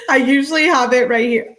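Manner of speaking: high, loud, laughing whine; half laughing, half wailing; laughing protest. Real, not acted. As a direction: talk through real giggles, high and loud. Laughs about the missing bottle.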